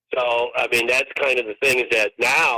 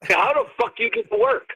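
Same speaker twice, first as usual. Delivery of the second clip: raised, mock disbelief; first take, higher and incredulous; incredulous question; 9 semitones higher than usual. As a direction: ask it like you can't believe them. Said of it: "I go".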